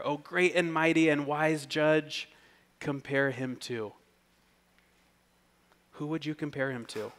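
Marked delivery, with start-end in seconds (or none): 0.0-3.9 loud mock-reverent address, easing at the end; sarcastic. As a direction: address them with mock grandeur. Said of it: "the sarcasm here".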